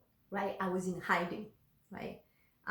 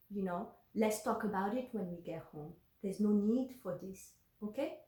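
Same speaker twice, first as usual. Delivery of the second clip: softer, steady reassurance; calm; 4 semitones lower, 4 dB quieter than usual. Retold or imitated. To her panicking husband at the wheel, calm and reassuring. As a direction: soothe him gently, keep it low. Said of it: "I was very calm".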